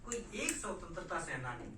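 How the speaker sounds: measured verse declamation; poetry recital. Acted. Poet recalling freedom fighters before fellow writers, measured recital. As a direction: recite in deliberate, separated phrases. Recites own protest poem.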